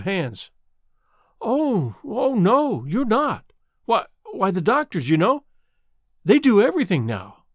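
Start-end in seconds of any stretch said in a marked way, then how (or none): 1.4-7.4 put-on startled young woman protesting; shocked denial. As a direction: rush to reassure in alarm. Girl's shocked impulsive denial.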